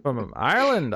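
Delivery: faltering mock-Irish lilt; failed Irish accent. Giving up on the bit, badly faked Irish accent. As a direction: try and fail at sounding Irish. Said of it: "I can't do it".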